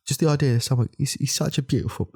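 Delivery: high, worked-up indignation; fuming. Acted. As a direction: splutter indignantly, pitched high. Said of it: "I'm absolutely fuming".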